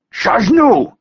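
demanding shout. A narrator's reading. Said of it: "the man demanded again".

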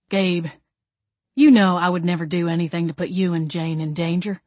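measured pledge, "you and Jane" given weight; earnest, unhurried promise; sincere assurance. A narrator's reading. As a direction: solemnly reassure a friend. Assurance, then corrected after disbelief.

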